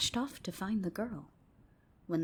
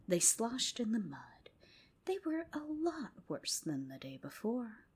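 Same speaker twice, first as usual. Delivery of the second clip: whispered storytelling. A narrator's reading. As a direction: hush it like a secret at bedtime. Whispered bedtime tale.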